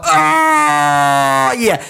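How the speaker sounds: high breathy sigh of relief; high relieved sigh. Retold or imitated.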